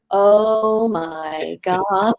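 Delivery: very slow, with a laugh; mimicking a stunned teacher. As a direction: stretch it out in disbelief, laughing. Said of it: "And he says".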